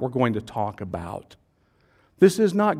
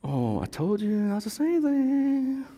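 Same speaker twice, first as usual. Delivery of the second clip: told-you-so; 8 semitones higher, 3 dB quieter than usual. Retold or imitated. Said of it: "everybody's going".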